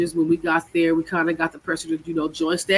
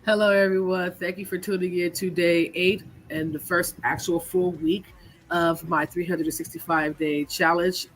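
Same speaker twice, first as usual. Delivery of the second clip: blocked nose, a little sick; talking through a head cold; stuffy nose. Real, not acted. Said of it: "If I sound a little stuffy".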